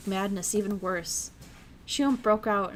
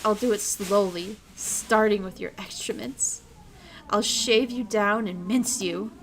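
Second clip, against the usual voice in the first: louder, gloating yandere threat; menacing villain; 3 semitones higher, 4 dB louder than usual. Acted. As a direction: savor every cruel promise. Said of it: "Did I have a good voice?".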